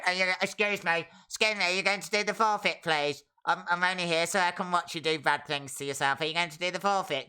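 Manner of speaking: mocking whiny viewer. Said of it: "that's how you sound, right?".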